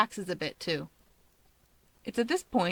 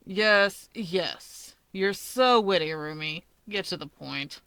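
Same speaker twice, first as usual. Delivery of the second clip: drawling; slower than usual. Acted. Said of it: "Dobby drawls".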